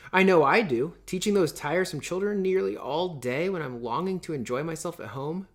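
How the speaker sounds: a touch of peevish complaint; complaining tone. Acted. Meg grumbling to her sisters about work, mildly complaining. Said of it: "in the complaining tone again".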